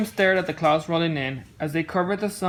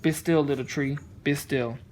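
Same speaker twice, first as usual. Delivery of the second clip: soothing; 4 semitones lower than usual. Acted. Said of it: "he replied".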